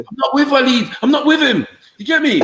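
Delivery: high mock-innocent squeak; squeaky high voice.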